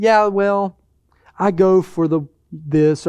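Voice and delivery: acting out a hesitant, halting excuse; mock sheepish answer, broken by pauses; soft-pedaling, evasive. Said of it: "we soft pedal it".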